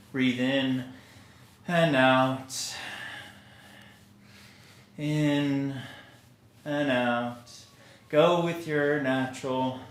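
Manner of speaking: pace each cue to an easy breath; guided relaxation. Acted. Teacher guiding students rocking on their heels, calm guided relaxation.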